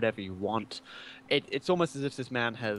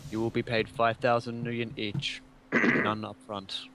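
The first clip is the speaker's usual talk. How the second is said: mechanical voice. Acted. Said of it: "in a mechanical voice, as if someone is typing text to speech".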